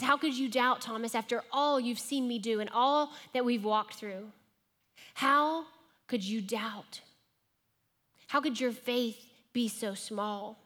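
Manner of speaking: understated angry rebuke; mild mock anger. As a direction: scold him, pressing on how. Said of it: "angry Jesus".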